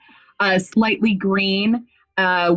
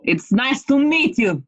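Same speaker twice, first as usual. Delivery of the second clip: friendly half-orc. Acted. Introduces own character, Sheog.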